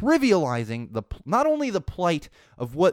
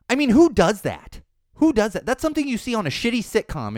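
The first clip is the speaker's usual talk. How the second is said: incredulous outrage; 7 semitones higher, 5 dB louder than usual. Real, not acted. Ranting at Trump's behaviour.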